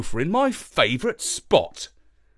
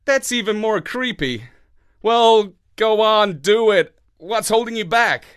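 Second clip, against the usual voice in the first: dog man voice; 8 semitones higher, 6 dB louder than usual. A narrator's reading. Marlowe voice.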